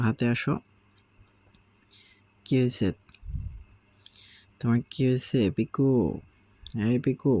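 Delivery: cooing at a sulky parrot chick; coaxing pet talk. Real, not acted. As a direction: sweet-talk the sulking bird onto your hand. Coaxing pet bird Piku.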